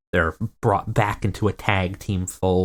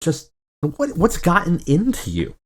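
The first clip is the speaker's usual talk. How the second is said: higher, pleading push for an answer; pressing partner; 8 semitones higher than usual. Retold or imitated. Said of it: "Dustin sighs and, and presses".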